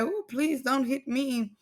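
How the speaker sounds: soft, slow timid plea; hammed-up frightened begging; mock scared plea. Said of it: "looking like".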